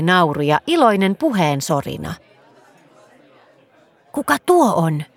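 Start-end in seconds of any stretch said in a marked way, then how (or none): none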